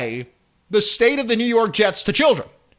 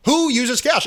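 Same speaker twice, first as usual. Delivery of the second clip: higher, sharper who uses cash; higher, mocking who uses cash; incredulous; 5 semitones higher than usual. Shown as a demonstration. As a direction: pop it up in disbelief.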